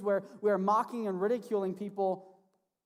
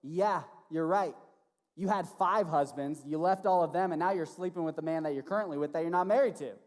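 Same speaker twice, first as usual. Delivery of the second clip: 1 bold; 3 dB louder than usual. Acted.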